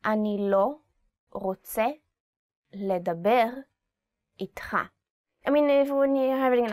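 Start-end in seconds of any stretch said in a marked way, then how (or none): 0.0-4.8 "אני לא רוצה לדבר איתך" split into separate words with pauses; slow, word by word. Shown as a demonstration. Teacher breaking up the phrase slowly for students. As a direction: say each word apart, slowly. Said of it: "slow repeat for learners".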